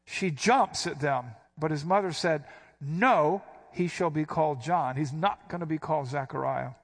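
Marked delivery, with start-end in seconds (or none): 2.8-6.7 No punched, then firm and falling; emphatic refusal. Shown as a demonstration. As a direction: draw a line in the sand. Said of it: "She's emphatic".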